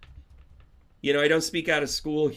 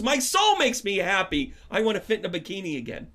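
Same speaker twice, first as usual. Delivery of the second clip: mentor voice; 5 semitones higher, 4 dB louder than usual. Retold or imitated. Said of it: "She goes".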